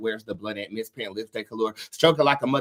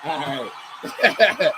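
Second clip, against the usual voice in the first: giddy and laughing, higher and louder; 3 semitones higher, 3 dB louder, much slower than usual. Real, not acted. Vlogger thrilled by her new deck, giddy laughing. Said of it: "I'm like a little kid".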